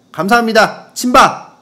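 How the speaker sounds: loud, high send-off; exclaimed sign-off. Acted. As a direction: call out the letter's sign-off. Signing off the listener's letter.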